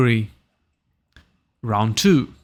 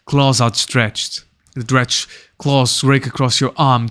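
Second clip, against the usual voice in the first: animated scene-setting read; game master narration. A narrator's reading. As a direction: narrate the fight blow by blow.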